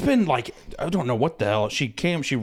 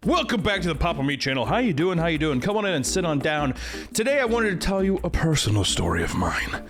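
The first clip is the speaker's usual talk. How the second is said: lightly voiced YouTube host welcome, a bit higher; YouTuber host voice; 5 semitones higher than usual. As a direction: greet the viewers like a channel host, only lightly put on. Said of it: "you could check out Meat Canyon or Papa Meat".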